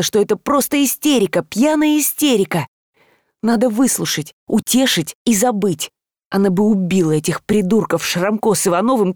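usual speaking voice

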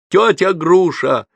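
high, loud, drawn-out scream for help; panicked boy calling out; frantic yell. A narrator's reading. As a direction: yell her name at the top of your voice. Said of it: "орал я благим матом".

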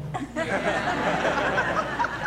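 a high, soft amused laugh; high chuckle. Real, not acted. Preacher laughing at Barak's reply, high soft chuckle. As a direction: laugh softly at the cowardly general.

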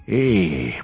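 ordinary delivery

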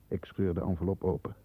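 ordinary talk

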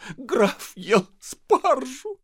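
tearful wife answering; hiccuping with tears. Acted. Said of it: "икая от слёз".

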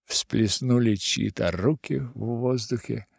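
usual speaking voice

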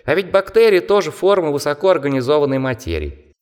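high squeaky mocking bat. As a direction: chatter like a scornful little bat. Bat character explains.

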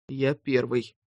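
softly whispered, firm; hushed and determined. A narrator's reading. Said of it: "прошептал он".

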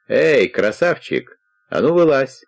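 rough summons with stretched vowels; calling out. A narrator's reading. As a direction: call him out of hiding, cockily. Stranger calls out from gate.

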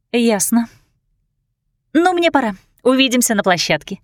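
bright high chirpy sing-song; chirping. Acted. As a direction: chirp it like a cheerful bird. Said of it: "прощебетала Кортни". (щебечущим голоском)

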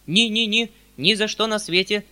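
high, loud refusal; shouting. A narrator's reading. Uncle shouts his refusal at his guest. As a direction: cry out no, grabbing his hands. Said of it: "закричал он".

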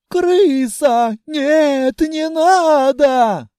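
high, loud panicked plea, stretched out slowly; frightened pleading. A narrator's reading. Dragoness begging the rat to stop, high panicked plea. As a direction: beg in terror, dragging out the last words. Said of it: "Харакана завывала".

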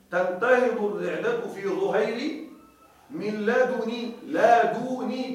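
"من لدن" with the dal given a full damma, no rounding-only; slow verse demo. Shown as a demonstration. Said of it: "بدون إشمام". (إنشاد البيت بضم الدال دون إشمام)

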